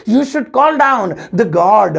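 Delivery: slow second take, weight on call; slow careful English repeat. Shown as a demonstration. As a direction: repeat it slowly, leaning on call. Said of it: "तो English होगी".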